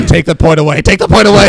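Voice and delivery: laughing, high and loud; giggling playful protest. Real, not acted. Jokey demand, laughing.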